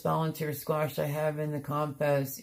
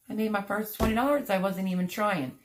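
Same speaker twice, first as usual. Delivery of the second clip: quicker, a touch higher and lifted; retold excitement; 4 semitones higher than usual. Vlogger tells viewers about her first tomato money, mildly excited. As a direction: relive the thrill of a first sale, lightly. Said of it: "like, all excited".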